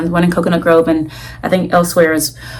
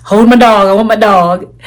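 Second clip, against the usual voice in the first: louder, playfully insistent plea; half-joking urgent demand; mock demand; 2 semitones higher, 5 dB louder than usual. Buyer phoning shop to hold the puppy, mock demand.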